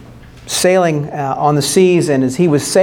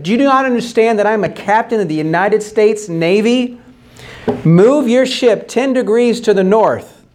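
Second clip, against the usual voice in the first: mildly indignant, higher-pitched command; indignant captain; 4 semitones higher than usual. Retold or imitated. Navy captain pulling rank on the other ship, indignant. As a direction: pull rank with raised pitch.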